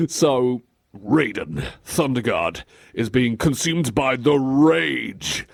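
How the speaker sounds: ordinary talk, nothing marked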